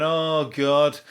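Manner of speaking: grumbling moan about weather. Retold or imitated. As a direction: whine about the rain. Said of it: "like, going".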